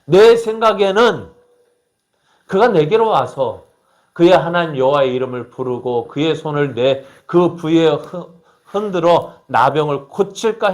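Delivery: mock-indignant quoted outburst; angry outburst. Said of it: "왜 화를 벌컥 내냐 하면 이렇게 이야기합니다".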